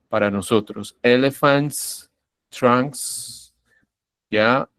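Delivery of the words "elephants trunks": "Elephants, trunks" each ending in a hissed s; normal S ending. Shown as a demonstration. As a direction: end "Elephants" and "trunks" on a voiceless s. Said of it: "suena como una S normal". ("Elephants, trunks" con s sorda al final)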